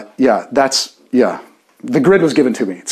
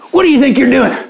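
high-pitched hammed-up yell; mock yelling; 10 semitones higher, 4 dB louder, faster than usual. Preacher playing Pharisees confronting Jesus, mock yelling. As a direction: yell it in a put-on voice, higher. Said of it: "They're yelling at him".

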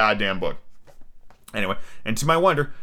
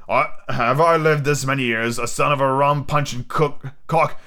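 stumbling read of a pirate captain; lightly acted indignant seadog; lightly voiced Long John Silver; 4 semitones higher, slower than usual. Silver scorns his challengers, lightly acted pirate indignation.

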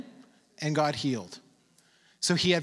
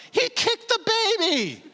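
laughing disbelief; 12 semitones higher than usual. Real, not acted. Marvels at a wild story.

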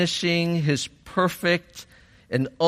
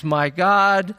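raised, higher-pitched retold cry to God; crying out loudly; 6 semitones higher, 4 dB louder than usual. Preacher voicing Jesus on the cross, crying out loudly. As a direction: cry it out, imitating an anguished plea. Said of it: "Jesus cries out with a loud voice".

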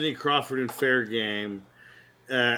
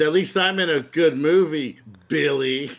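smug retort; 3 semitones higher, 4 dB louder than usual. Retold or imitated. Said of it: "Steven Baldwin goes".

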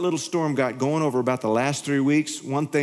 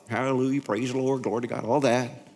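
light holy praise; 3 semitones lower than usual. Retold or imitated. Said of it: "be my old self".

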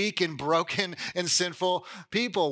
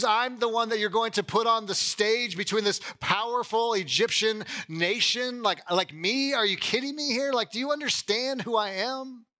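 a hint of a panicked, higher-pitched Moses pleading; insecure Moses; 5 semitones higher than usual. Preacher voicing Moses protesting to God, lightly panicked pleading. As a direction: play Moses begging God, voice climbing in disbelief. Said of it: "You can see his insecurity".

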